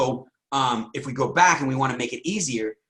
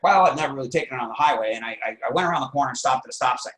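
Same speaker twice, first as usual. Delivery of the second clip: deflated; faster than usual. Retold or imitated. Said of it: "You're not gonna talk about your car like that".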